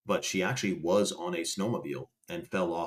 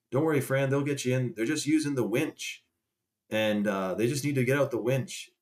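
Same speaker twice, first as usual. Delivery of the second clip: raised, teasing reassurance to a friend; higher playful don't-worry voice; mock reassuring; 5 semitones higher than usual. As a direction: pretend to comfort her while ribbing her. Teasing Fran at the ambulance.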